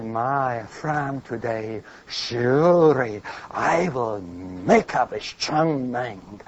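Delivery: quiet pledge. Retold or imitated. A repentant husband quietly vows to God to love his wife, hushed. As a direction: mumble a humble resolution to yourself. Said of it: "and you will say".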